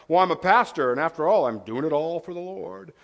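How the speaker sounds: a light hint of a self-justifying pastor; mock pious pastor. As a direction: lightly play the holy excuse. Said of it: "pulling the pastor card".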